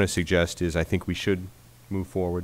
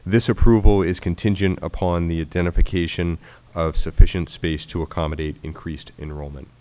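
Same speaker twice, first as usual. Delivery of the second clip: stuffy nose, louder reading; nasal voice; 9 dB louder than usual. Real, not acted. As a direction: reads it again, clearly nasal. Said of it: "apologize for my, uh, nasal voice this evening".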